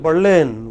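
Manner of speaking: Berlin, stressed on the second syllable; final-syllable stress. Shown as a demonstration. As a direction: model Berlin with the weight on the end. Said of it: "which are pronounced differently".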